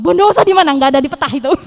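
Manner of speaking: as if the place can't exist; incredulous. Retold or imitated. Friend baffled where Bondowoso is, loud incredulous.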